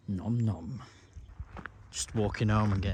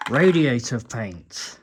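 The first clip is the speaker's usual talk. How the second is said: talking with an earbud in mouth; words muffled by something in mouth; mouth full; 2 semitones lower, slower than usual. Real, not acted. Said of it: "Sorry, I've got a earbud in my mouth".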